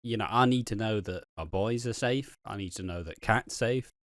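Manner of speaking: acted earnest plea. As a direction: quietly confide a heartfelt worry. Acting Alfie's earnest confession to Phil.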